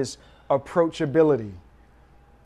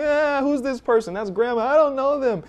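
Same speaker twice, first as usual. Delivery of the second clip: infant voice; 9 semitones higher, 3 dB louder than usual. Pretend. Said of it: "they're like".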